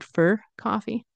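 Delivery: "for" said as a quick fer before "coffee"; reduced for. Shown as a demonstration. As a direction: slide "for" into a light fer. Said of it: "notice that I said".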